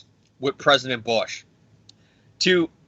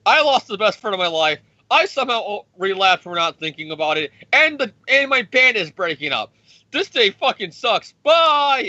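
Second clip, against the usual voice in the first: whiny Iron Man; 6 semitones higher than usual. Retold or imitated. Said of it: "Iron Man like".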